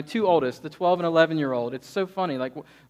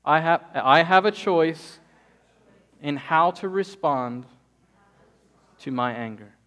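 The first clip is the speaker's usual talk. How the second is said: slow, emphatic, louder affirmation for the congregation to repeat; slow call and response; 4 dB louder, slower than usual. Shown as a demonstration. Preacher leading the congregation in a slow, emphatic repeat. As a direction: say it slowly like a creed. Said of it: "Will everybody say that with me?".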